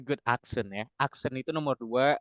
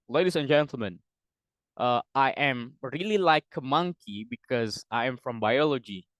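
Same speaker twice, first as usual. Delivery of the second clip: a hint of louder public address; mock conference speaker; 5 dB louder than usual. Invited scientist addressing a United Nations conference, mock formal speech. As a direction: lightly act out an invited scientist's opening. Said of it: "Terusnya kita bilang gini".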